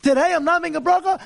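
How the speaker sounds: mock the excuse with scorn; quick scornful parody; mocking quote. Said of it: "God is a toy?".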